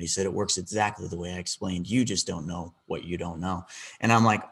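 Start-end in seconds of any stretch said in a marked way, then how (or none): 0.3-3.6 scolding. Retold or imitated. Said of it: "I felt like I was being scolded".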